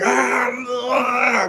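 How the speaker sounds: frantic high cry of panic; high yelping "ah, ah" of a flustered teen cook; panicked cry. Retold or imitated. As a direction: cry out like you're losing it under pressure. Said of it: "I go crazy".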